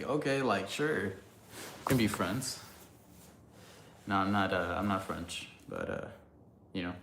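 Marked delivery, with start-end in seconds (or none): 0.0-2.6 mock reluctant agreement. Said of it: "he was like".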